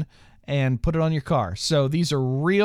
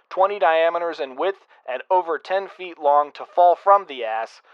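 put-on old radio announcer. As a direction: boom it like an old radio alert. Emergency broadcast parody.

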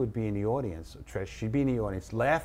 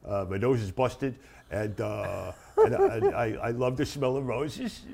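put-on punch-drunk boxer character. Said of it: "I'm just doing this character".

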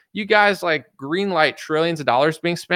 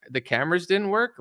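higher pitch, rising on work in disbelief; incredulous echo; 5 semitones higher than usual. Real, not acted. Host mocking the prison camera excuse, incredulous. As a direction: repeat the excuse back, stunned.

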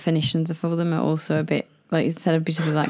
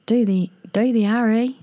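tentative, higher Australian try; attempted Australian accent; 5 semitones higher than usual. Testing the friend on slang, unsure Australian accent. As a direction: feel for the Australian accent, restarting. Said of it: "How do you do an Australian accent".

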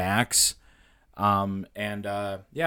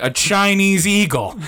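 high and loud, slow through laughter; laughing; 9 semitones higher, 7 dB louder, slower than usual. Real, not acted. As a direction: crack up while saying it. Laughing at own joke.

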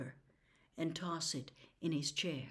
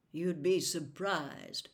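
grimly; 2 semitones lower, slower than usual. Acted. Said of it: "Atticus said grimly".

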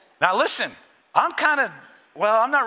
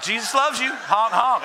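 playful shouted blessing with honks; cheery honk call. Pretend. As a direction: call it out like a friendly car horn. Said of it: "Just like".

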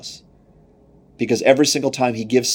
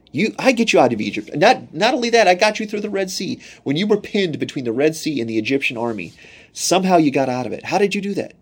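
higher, rising indignant voice as God; God rebuking the Israelites, pitched up; God scolding his people; 5 semitones higher than usual. Acted. Preacher voicing God to the Israelites, indignant and higher.

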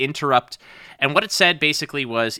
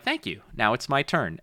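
smug thanks; 5 dB quieter than usual. Retold or imitated. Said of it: "I'm like".

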